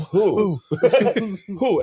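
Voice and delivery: high, incredulous "who?"; mock bewilderment. Gamer answering his paranoid roommate, high-pitched mock bewilderment.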